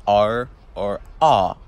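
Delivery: "R or ah" with the r dropped, British style. Shown as a demonstration. Contrasting Irish with London, "R or ah" British style. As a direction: say "R or ah" slowly with open London vowels. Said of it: "like in Britain and London".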